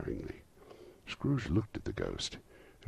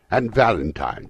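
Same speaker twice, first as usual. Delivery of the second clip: loud, raised voice bubbling over with delight; ecstatic, half laughing; 7 semitones higher, 11 dB louder than usual. A narrator's reading. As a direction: gush it, between laughing and crying. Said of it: "extraordinary voice between laughing and crying".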